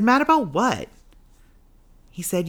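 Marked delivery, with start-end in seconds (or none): 0.0-0.9 indignant question. Retold or imitated. Indignant reply in argument with God.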